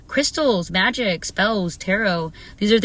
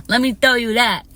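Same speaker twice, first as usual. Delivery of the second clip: "Let me tell you that" said louder and higher, leaning on tell; louder insisting; 4 semitones higher, 5 dB louder than usual. Shown as a demonstration. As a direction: punch it out, mock-boastful. Repeats with more force.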